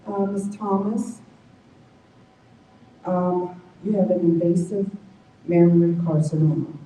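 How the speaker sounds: imitating the tech's dry news; dry lab tech. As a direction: read the diagnosis like a routine line. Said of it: "Very dryly said".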